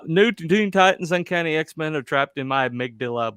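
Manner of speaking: loud mock villain with cackle. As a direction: ham it up like a cartoon villain. Mock villain quote with laugh.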